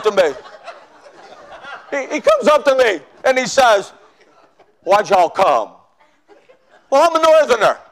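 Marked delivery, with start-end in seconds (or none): 4.8-5.7 a lightly voiced Southern deacon with a Southern accent. Deacon questioning a kneeling young man, mild Southern accent. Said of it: "I don't speak Southern".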